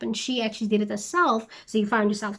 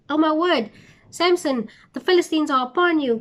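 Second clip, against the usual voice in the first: higher, louder, quick mock cry of alarm; a hammed-up warning shout to Samson; mock alarm call; 5 semitones higher, 3 dB louder than usual. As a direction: play Delilah raising a fake alarm. Delilah calls out the alarm.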